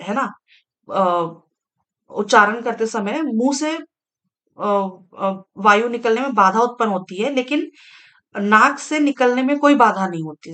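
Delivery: normal talking voice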